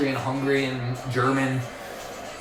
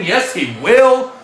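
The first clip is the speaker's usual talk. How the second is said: excited call; 7 semitones higher, 6 dB louder, slower than usual. Real, not acted. Catchphrase on a big dunk.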